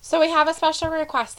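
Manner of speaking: stifled laughter; trying not to crack up; hysterical laugh. Real, not acted. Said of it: "why are you laughing so hard but trying not to".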